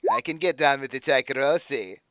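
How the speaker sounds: put-on a touch of leering accent; lightly accented villain. Patron petting her ears, lightly accented leer. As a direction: purr it like a sleazy host. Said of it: "I love the accent".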